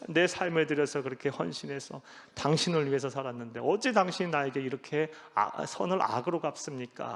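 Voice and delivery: Jacob's angry complaint, loud at the start then settling; preacher voicing Jacob's fury toward Laban, mildly; angry outburst. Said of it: "불같이 막 화를 내면서".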